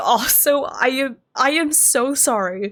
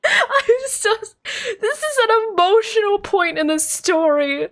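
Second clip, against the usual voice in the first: high laughing voice fighting for composure; trying to be serious through giggles; still giggling; 8 semitones higher than usual. Real, not acted. Streamer to chat, apologizing mid-scene while still laughing high. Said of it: "I had to laugh".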